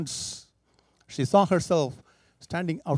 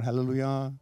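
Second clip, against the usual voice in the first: normal talking voice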